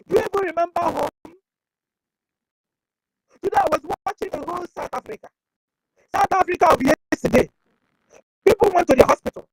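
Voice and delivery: an impassioned loud appeal to Biafrans. Real, not acted. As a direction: call out to the listeners, loud and urgent. Appeals to Biafrans, then tells of South Africa.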